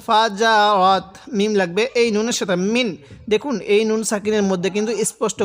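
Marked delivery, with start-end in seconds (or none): 0.1-1.1 ফাজা রত drawn out very slowly; slow spelling. Shown as a demonstration. Teacher spells out the word slowly for learners. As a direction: stretch ফাজা রত syllable by syllable. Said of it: "র লাগবে এই তায়ের সাথে রত".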